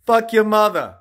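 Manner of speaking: sudden loud curse; angry outburst. Acted. Host cursing mid-apology, loud angry outburst. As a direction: snap the curse out loudly.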